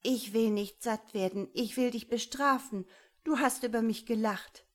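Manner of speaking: wounded, forceful scolding; resentful growling anger. A narrator's reading. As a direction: punish them with your words. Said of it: "Imix grollte".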